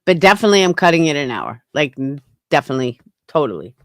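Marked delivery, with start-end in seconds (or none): 1.7-3.8 lowered voice. Shown as a demonstration. Streamer trying to lower their voice a little, deepened pitch. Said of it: "trying to lower my voice a little".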